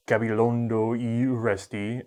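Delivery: Spanish name said with an American accent; Anglicized Spanish, English vowels. Real, not acted. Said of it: "I'm sorry about my Spanish pronunciation".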